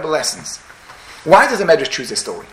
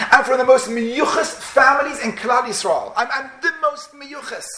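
plaintive, rising higher as it goes; mock tearful lament; 4 semitones higher than usual. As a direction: act out a wounded, indignant lament, building in pitch. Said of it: "and he's crying".

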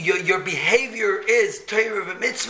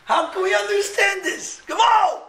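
impassioned; 12 semitones higher than usual. Real, not acted. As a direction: plead it out with fervor. Impassioned rhetorical question.

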